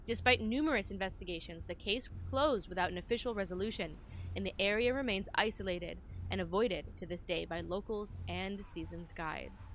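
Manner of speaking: measured, emphatic narration of a report; document read-aloud. Acted. Player reading the game's note to viewers, documentary narration.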